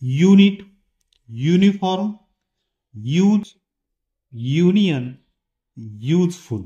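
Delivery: "युनिट" "यूज" starting with a clear yoo; yoo sound demo. Shown as a demonstration. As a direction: put a firm yoo at the start of each word. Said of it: "यू मध्ये बघा". (साफ़ यू से शुरुआत)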